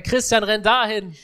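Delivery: imitated shouting father. Interpreter echoing a father at the game, mild imitated shout. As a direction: call it out like a sideline dad. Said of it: "Und alle schreien".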